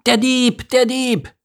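very high, agitated gull lady; screeching seagull. A narrator's reading. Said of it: "kreischte eine aufgeregte Möwendame".

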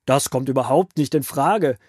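wütender Pharao, deutlich lauter. Acted. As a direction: weist empört ab, lauter Ausruf. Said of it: "rief der Pharao wütend". (zorniger Pharao lehnt lautstark ab)

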